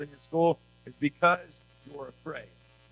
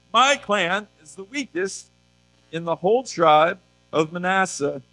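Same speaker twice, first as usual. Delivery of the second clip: put-on polite pleading Gideon in a light British accent; a hint of a British excuse-maker; 4 semitones higher, 7 dB louder than usual. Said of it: "he has a British accent".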